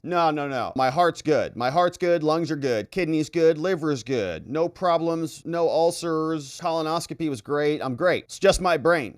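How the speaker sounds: a hint of a proud old president; mock Biden. Biden listing organs, acted.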